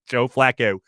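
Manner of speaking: Joe Flacco in a Baltimore accent, Flacco with a rounded Balmer o. Shown as a demonstration. Host shows how Baltimore says Flacco, Baltimore accent. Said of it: "the way everyone says it in Baltimore".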